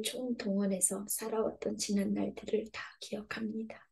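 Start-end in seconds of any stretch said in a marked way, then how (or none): 2.7-3.9 whispered admission. Acted. Confessional prayer, trailing off.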